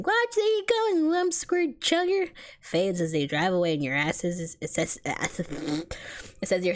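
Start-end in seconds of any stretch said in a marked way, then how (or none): 0.0-2.3 high, drawn-out angry yell; yelling driver. A narrator's reading. Driver yells at whoever he just hit, yelling. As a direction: yell it slowly at a pedestrian in the road. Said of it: "The sound of the driver yelling".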